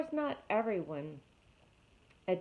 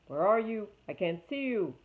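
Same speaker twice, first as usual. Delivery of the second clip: calling out; 2 semitones higher, 6 dB louder than usual. Acted. Frog calling out.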